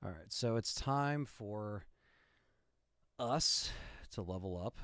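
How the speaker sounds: slow hissing snake. Acted. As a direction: drag it out like a snake. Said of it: "Yes, that was a snake impression".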